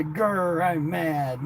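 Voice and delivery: mock growl. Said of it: "say you're mad".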